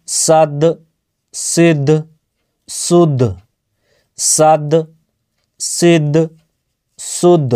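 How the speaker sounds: সাদ, সিদ, সুদ with the final দ released in a short echoing bounce; qalqalah bounce. Shown as a demonstration. Teacher drills qalqalah on দ for students, bounced release. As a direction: pop the দ of সাদ at the end, tajweed style. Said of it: "দাল হচ্ছে একটি".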